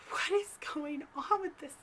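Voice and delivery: mock freaking out, breath held back; freaked-out disbelief. Telling of Gary knocking at midnight, freaked-out disbelief.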